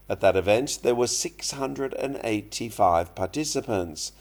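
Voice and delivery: slow, careful English news reading; news read for learners. Acted. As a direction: read the article slowly for students. Reads news story aloud. (อ่านข่าวภาษาอังกฤษช้าๆ ชัดๆ ให้นักเรียน)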